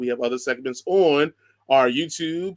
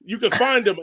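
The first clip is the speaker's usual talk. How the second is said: put-on Irish accent; 4 semitones higher, 4 dB louder than usual. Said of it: "in her Irish accent".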